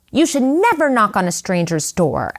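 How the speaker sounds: mild scolding, like a stern teacher; a touch of a scolding elder; reprimanding. Retold or imitated. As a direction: tell them off lightly. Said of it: "like she was reprimanding us".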